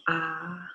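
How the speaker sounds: long, drawn-out sighing ah; exhaled ah. Shown as a demonstration. Yoga teacher showing the letting go of tension, exhaled ah. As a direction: let the breath out on a sustained ah. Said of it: "exhale with the sound of".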